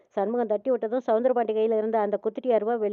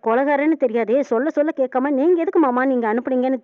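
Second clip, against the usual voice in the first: louder, half-acted angry scolding; retold scolding; 5 dB louder than usual. Bharani blames her uncle, a louder retold scolding. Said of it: "திட்டுறாங்க பரணி".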